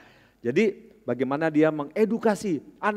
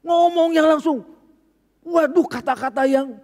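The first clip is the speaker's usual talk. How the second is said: laughing; 13 semitones higher, 10 dB louder than usual. Real, not acted.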